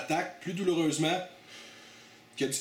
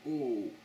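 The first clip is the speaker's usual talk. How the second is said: pained groan; 4 dB quieter than usual. Real, not acted. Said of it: "Ça brûle partout".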